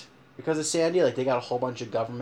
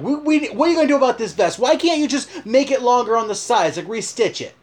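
imitating the buddy, higher and louder, fast; angry complaint; 8 semitones higher, 5 dB louder than usual. Buddy confronting the store manager, angry and fast. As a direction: hammer the manager with questions. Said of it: "he starts going".

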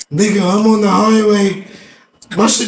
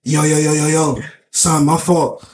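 lower, mumbled 'my fault, bro' over and over; imitating a sheepish friend; 6 semitones lower than usual. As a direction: apologize like a guilty buddy. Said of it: "Notice how I said "my fault".

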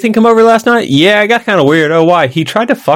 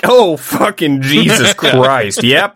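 exasperated; 3 semitones lower, much slower than usual. Retold or imitated. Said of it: "I was like".

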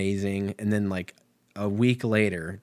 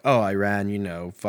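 lightly attempted Irish accent in the style of a rock singer; badly faked Irish rock-star accent; half-hearted Irish accent, abandoned midway; 3 dB louder than usual. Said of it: "don't even know what accent that was".

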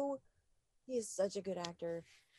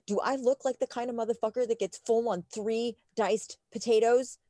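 angry rant; 7 dB louder than usual. Retold or imitated. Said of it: "please don't yell at me".

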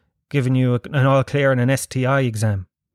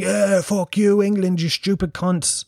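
mock gloating fan; 6 semitones higher, slower than usual. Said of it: "jumping around the place going".

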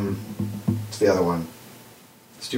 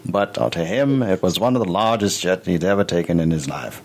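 Morgan Freeman impression. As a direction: tell it like a mellow documentary narrator. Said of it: "It's not a great Morgan Freeman".

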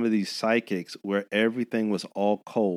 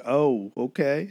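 laughing; 4 semitones higher, slower than usual. Retold or imitated. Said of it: "I was like".

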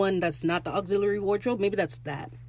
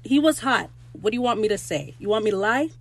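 higher, louder cheeky protest; playful defensive; 4 semitones higher, 5 dB louder than usual. Real, not acted. Fan defending her crush on Ed, playfully defensive. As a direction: own it shamelessly.

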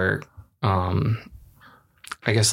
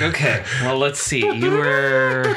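mock court judge; 3 semitones higher, slower than usual. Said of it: "and they'd be like".

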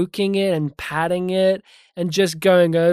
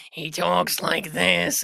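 put-on gravelly old man voice; 4 dB quieter, slower than usual. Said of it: "gruff, gravelly voice".

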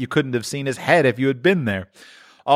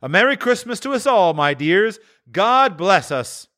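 Bob's toast; 11 semitones higher than usual. A narrator's reading. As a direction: raise the glass to the whole family. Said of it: "Bob proposed".

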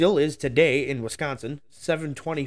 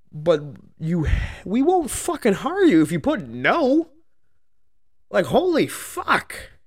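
much higher and louder, slowed right down; furious shout; 7 semitones higher, 6 dB louder, slower than usual. Real, not acted. Podcaster ranting to listeners about applicants without rides, furious slow shout. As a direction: blow up at them, dragging the words out.

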